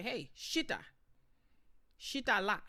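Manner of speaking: commanding. Shown as a demonstration. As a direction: tell a child to sit, firmly. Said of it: "You say".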